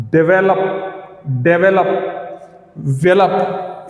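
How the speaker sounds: डेवलप slowly, leaning on the वे, then वेलप alone; stress on वेलप. Shown as a demonstration. Teacher isolating the stressed part for students, वे stressed in डेवलप. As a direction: draw out डेवलप with weight on वे. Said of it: "इस पे पड़ रहा है".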